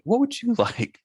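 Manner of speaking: high, laughing mimic of the waitress; laughing mock question. Friend mocking the waitress asking twice, laughing. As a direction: giggle through the repeated question.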